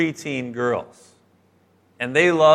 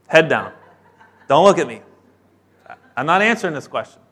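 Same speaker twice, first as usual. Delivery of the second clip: mock student dodging; 4 dB louder, faster than usual. Students dodging the teacher's question.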